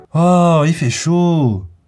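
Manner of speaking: grumbling, negative, complaining intonation. Example of a neutral sentence given a negative, complaining intonation. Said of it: "une phrase neutre avec une intonation négative. Exemple".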